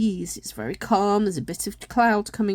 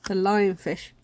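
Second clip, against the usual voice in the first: speaking through a yawn; mid-yawn, words stretched. Real, not acted. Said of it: "I'm yawning".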